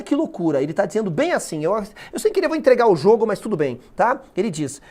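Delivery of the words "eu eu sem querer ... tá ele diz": normal talking voice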